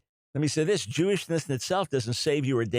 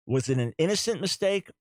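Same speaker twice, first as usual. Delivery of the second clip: ordinary talk, nothing marked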